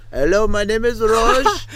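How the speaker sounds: high, slow put-on caller voice; mock scam caller. Friend mocking a scam caller introducing himself, slow high put-on voice. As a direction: stretch the fake friendly greeting out.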